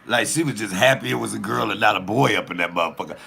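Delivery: ordinary talk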